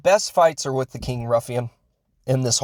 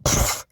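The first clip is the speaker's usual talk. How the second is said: dismissive pfft. Retold or imitated. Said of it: "He does that".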